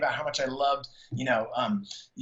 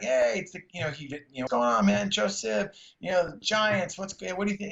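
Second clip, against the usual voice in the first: higher, friendly mock greeting; imitating Johnny; 6 semitones higher than usual. Retelling how Johnny greeted him at shows, higher and friendly. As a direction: lightly put on his buddy voice.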